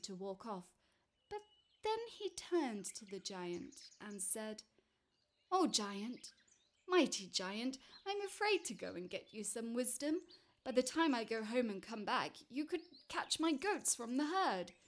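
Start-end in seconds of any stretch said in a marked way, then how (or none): 5.5-14.7 pleading little man. Acted.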